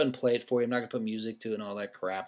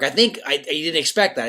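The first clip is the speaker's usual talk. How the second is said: ordinary delivery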